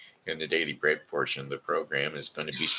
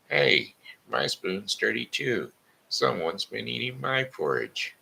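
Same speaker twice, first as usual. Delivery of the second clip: Mama Bear; 8 semitones higher than usual. Acted. Mama Bear complains her porridge was eaten, higher voice. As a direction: lift it up into a fussy Mama Bear.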